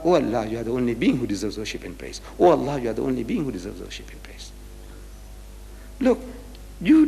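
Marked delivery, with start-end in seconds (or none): 0.0-4.5 reverent praise. Acted. Translates the angels' praise as prayer.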